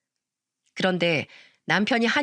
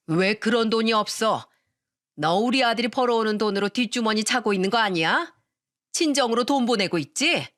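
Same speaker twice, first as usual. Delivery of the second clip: accusing mother-in-law. Acted. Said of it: "억지를 부리며 소리를 질렀어요".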